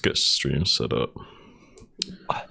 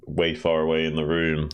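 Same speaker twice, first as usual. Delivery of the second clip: distant, off-mic and softer; away from the mic; 3 dB quieter than usual. Shown as a demonstration. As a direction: speak from across the room. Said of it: "this probably sounds like I'm".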